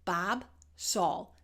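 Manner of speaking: "Bob" with open ah, "Saul" with rounded aw; two contrasting vowels. Shown as a demonstration. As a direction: demonstrate ah in "Bob" against aw in "Saul". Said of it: "here's our two sounds".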